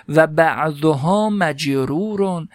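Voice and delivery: teacher slowly voicing the Arabic example for students; slow recitation. Shown as a demonstration. Teacher to students, reading the Arabic text slowly. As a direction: read مثل ثاقبون slowly, each syllable drawn out.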